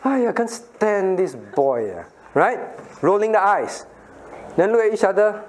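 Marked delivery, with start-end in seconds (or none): 0.0-2.1 slow scornful aiya; mock disdain. Child sneering at an innocent classmate, slow and scornful. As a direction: sneer it out slowly. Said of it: "Or they do something".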